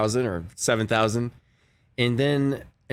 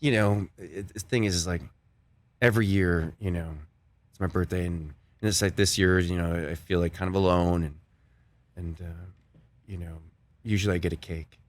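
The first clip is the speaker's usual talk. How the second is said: hint of Christopher Walken; 8 semitones lower, 4 dB quieter than usual. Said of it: "He's like".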